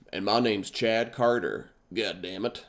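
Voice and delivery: mock slow, drawn-out American drawl; caricature American accent. Comic imitating a simplistic American to a European, caricature American accent. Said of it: "very simple caricature of an American".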